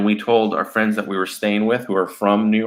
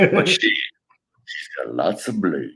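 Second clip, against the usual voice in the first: laughing; 5 semitones lower, slower than usual. Real, not acted. Punchline through laughter.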